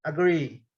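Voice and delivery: "Agree." with a weak schwa a- and stressed -GREE. Shown as a demonstration. Teacher models the schwa in Agree for students. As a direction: soften the first a of "Agree." to a schwa. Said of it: "sílabas mais fracas".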